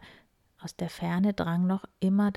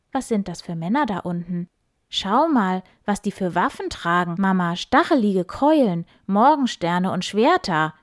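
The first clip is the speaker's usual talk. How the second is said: put-on boy calling his mother, louder; called out; 6 dB louder than usual. Ulrich calls to his mother about the armed men, louder. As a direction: shout it down into the valley. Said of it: "rief Ulrich".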